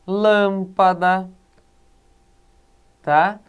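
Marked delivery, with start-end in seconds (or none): 0.1-1.3 "lâmpada" bem lento, com "lâm" forte; tônica na antepenúltima. Shown as a demonstration. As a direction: estique "lâmpada" sílaba por sílaba, pesando em "lâm". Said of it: "na antepenúltima sílaba". ("lâmpada" silabado, primeira sílaba destacada)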